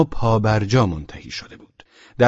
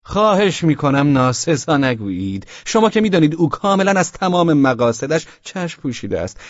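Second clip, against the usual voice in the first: put-on tipsy young man; 5 semitones higher than usual. Drunk young man answering Velchaninov, bewildered and high. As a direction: toss back the question, baffled.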